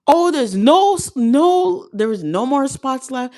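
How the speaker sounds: high, slow, apologetic brush-off; manager brushing off. Retold or imitated. Job fair manager turning her away, high sorry tone. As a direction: play the manager letting her down. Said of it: "he was like".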